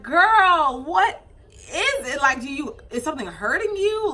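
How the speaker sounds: retold baffled concern; exasperated questioning. Retells questioning the screaming baby.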